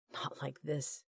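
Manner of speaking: hushed inner cry, held down; a silent scream kept inside the head. A narrator's reading. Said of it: "his mind screamed".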